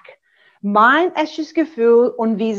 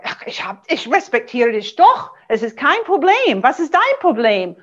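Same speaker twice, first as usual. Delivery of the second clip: Jason being defensive. Pretend. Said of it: "Jason würde sagen".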